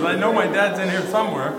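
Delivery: a hint of a small child looking for dad; child's words. Pastor quoting his young son, lightly childlike voice. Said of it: "He says".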